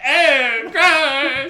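loud, high grossed-out squeal; disgusted. Retold or imitated. Buffy disgusted at Dawn's claim.

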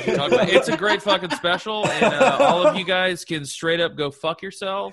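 can't keep a straight face while ranting; laughing while talking. Real, not acted. Laughing through a joking rant.

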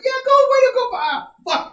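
sudden high cheering that deflates; mock cheer. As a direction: cheer them on, then drop it flat. Mock cheering then letdown.

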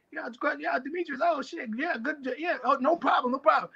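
a hint of a flustered fighter caught off guard; imitating the opponent. Fighter mimics his startled rival answering in the ring, mock nervous. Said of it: "he's like, he's like".

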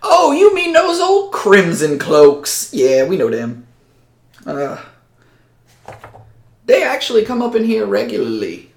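a high-voiced hick who sizes up strangers; Cleftus.

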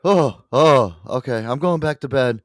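high-pitched imitation of a friend; woken-up friend. Host imitates his just-woken friend on the phone, high put-on voice. Retold man woken up by call.

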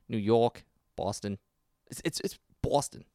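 careful New York attempt; New York accent. Shown as a demonstration. Co-host practising for the host, tentative New York accent. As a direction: feel out the New York vowels word by word. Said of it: "How do you say".

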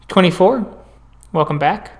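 soft, measured clinician voice; quiet professional check-in; calm doctor in session. Acted. Doctor Appleton greeting her patient, soft and measured.

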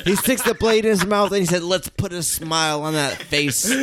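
Heath Ledger Joker. Acted. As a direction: laugh and cry through the line like a mad clown. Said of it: "I am Heath Ledger".

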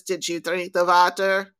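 lightly imitated German guide, "water" as "vater"; German accent. Tour guide questioning the tourist, German accent. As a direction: ask it with a touch of German accent. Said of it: "he goes".

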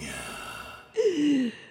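sharp breathless gasp from inhaled dust; choking gasp. Real, not acted. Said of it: "inhaled dust".

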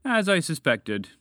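knowing dragon. A narrator's reading. Dragon hears moose confirm suspicion, slow and knowing. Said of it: "the dragon continued".

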